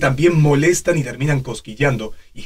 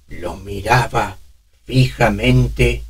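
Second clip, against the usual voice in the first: put-on slow, breathy old man voice; 3 semitones lower, slower than usual. Shown as a demonstration. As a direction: shallow breaths between words. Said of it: "respiración más superior entrecortada".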